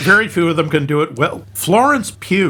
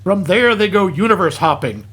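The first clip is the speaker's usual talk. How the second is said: comic film recap. Acted. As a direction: lively recap narration with punched asides. Reads a hammed-up film recap.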